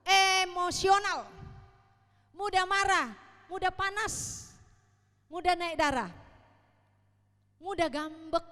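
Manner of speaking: loud, slow stressed preaching; preached emphasis. Acted. Preacher lists childish traits to the congregation, booming. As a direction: hammer each word home from the pulpit.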